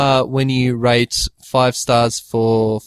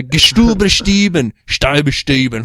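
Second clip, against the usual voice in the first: fake German gibberish; 3 semitones higher than usual. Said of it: "that's not how Hitler would sound like".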